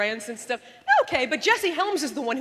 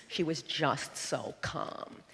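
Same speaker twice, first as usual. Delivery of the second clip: much lower, softer and very slow; imitating calm Ferraro; 12 semitones lower, 8 dB quieter, slower than usual. Ferraro at the debate keeping perfectly calm. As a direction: prove there's not a hormone in you, slowly. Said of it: "She just spoke like this".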